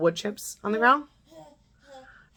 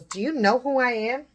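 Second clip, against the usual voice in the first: higher, rising mock challenge; imitated self-important mom; 4 semitones higher than usual. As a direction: mimic a haughty do-you-know-who question. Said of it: "She was one of those".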